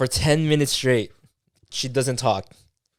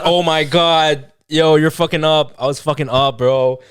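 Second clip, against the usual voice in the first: louder, slow, drawn-out alarm at himself; panicked self-scolding; 3 semitones higher, 6 dB louder, much slower than usual. Retold or imitated. Scolding himself over the phone call, louder and slow. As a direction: stretch each word out like a man realising he blew it.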